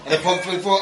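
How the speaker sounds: lively football commentary voice; excited commentator. Retold or imitated. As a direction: call it like a match commentator. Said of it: "It was like, uh".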